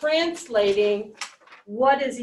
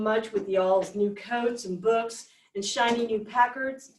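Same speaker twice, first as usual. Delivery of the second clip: reading aloud in Mississippi dialect; lightly acted Southern dialect dialogue. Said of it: "quite a bit of dialect in it".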